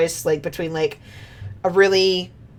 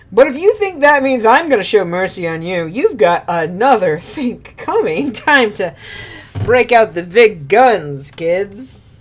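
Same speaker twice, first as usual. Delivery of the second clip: gloating octopus villain; 3 semitones higher, 4 dB louder than usual. Acted. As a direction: cackle it at the kids. Ultros threatening.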